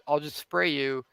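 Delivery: understated, unbothered delivery; nonchalant. Retold or imitated. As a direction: casually shrug off a tough guy. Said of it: "versus the nonchalant".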